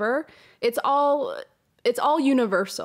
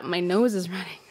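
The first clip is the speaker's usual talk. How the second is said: emotional whisper; 3 semitones lower than usual. Real, not acted. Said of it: "I'm getting all worked up".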